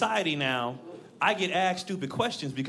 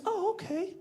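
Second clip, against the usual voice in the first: much higher, sugary mom voice, breaking into a laugh; team mom; 12 semitones higher than usual. Retold or imitated. Team mom asking a dad which kid is his, high sugary voice. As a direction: play the nosy mom, sweet and prying. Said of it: "She goes".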